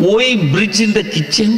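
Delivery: puzzled question. Acted. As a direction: ask it in amused disbelief.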